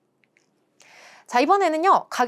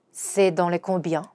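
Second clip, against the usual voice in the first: slow model sentence; slow repeat; 3 semitones lower, much slower than usual. Shown as a demonstration. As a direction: repeat for learners slowly. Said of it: "이렇게 말하는 거죠".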